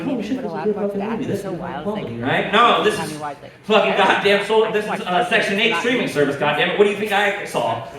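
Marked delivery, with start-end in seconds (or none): 0.0-2.5 impressed viewer. Retold or imitated. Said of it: "You're like".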